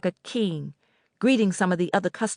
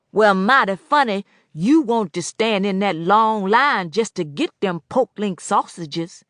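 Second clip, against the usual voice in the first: teasing; 2 semitones higher, 5 dB louder than usual. Acted. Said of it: "he teased".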